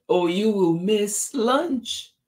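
high, slow warning call; friend calling out. A narrator's reading. Friend warning Tisha about lunch, slow high call. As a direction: stretch out a high, mild call. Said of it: "called her friend".

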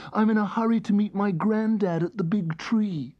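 high, eager little elephant voice. Acted. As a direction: hurry along as a small elephant.

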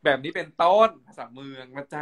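Northern Thai sign-off; Northern Thai dialect. Shown as a demonstration. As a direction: wrap up the demo in kham mueang.

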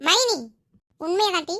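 high, loud rising protest; protesting call. Acted. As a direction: cut in with a rising cry. Protesting to sister-in-law. (மறுப்போடு உயர்ந்த குரலில் அழைப்பு)

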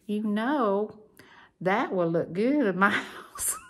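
hint that you want it; mock-coaxing with a giggle; teasing hint.

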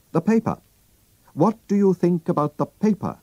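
quizzing his friend, a touch sharper; lightly voiced Holmes. Holmes asks his friend about the paper, lightly voiced.

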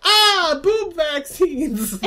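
put-on excited kid. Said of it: "my son might be like".

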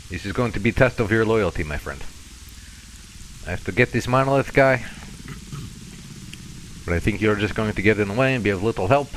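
mock-Russian warning to a captive; fake Russian accent. Testing his prisoner's loyalty, fake Russian accent. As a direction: lay down terms in a put-on Russian accent. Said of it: "terrible fake Russian accent a little thick".

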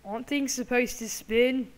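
hammed-up fake British accent; amateur mock-British accent; put-on British accent. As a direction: talk in a badly faked British accent.

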